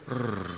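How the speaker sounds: low rolled plummeting noise; imitated sinking noise. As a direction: roll a low "rrr" for a crash. Imitates sinking on bad news.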